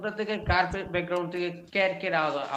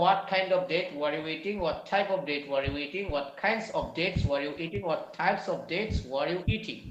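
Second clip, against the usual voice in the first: slow model reading; 2 semitones lower, much slower than usual. Shown as a demonstration. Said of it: "এই চারটে একবার বলেন তো".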